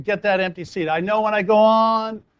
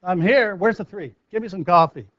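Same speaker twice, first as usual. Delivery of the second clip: confident entrance. Shown as a demonstration. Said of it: "I'm walking in going".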